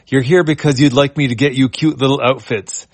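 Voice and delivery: excited. Acted. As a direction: Etana gushing about cute outfits. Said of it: "Etana, excited".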